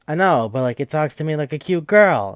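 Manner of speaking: high, loud mock protest; whiny insistence. Fanfic maker defending his laptop crush, insistent. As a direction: push it up, pleading your case. Defends himself again to doubters.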